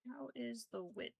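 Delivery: musing quietly while checking the piece; whispered question. Real, not acted. Checking her stitches.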